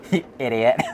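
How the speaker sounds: ordinary talk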